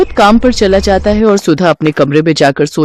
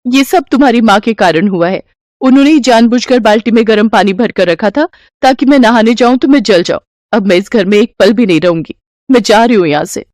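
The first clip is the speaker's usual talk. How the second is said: nagging wife; 3 semitones higher, faster than usual. Acted. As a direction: whine and push to get rid of her. Wife accuses mother-in-law.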